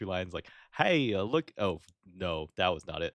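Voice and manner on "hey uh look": put-on New York accent. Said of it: "like, New York City accent".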